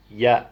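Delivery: "yeah" as a short "ya" for you; Northern "ya". Shown as a demonstration. Vlogger teaching Northern "yeah" in place of "you". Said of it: "instead of you".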